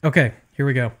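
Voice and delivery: winded after push-ups; out of breath. Real, not acted. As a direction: talk while still catching your breath. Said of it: "Sorry, I'm still catching my breath".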